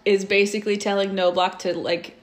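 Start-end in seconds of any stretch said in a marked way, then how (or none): 1.8-2.2 hushed, slow whisper. Real, not acted. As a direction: drop it to a whisper. Swear word dropped to whisper.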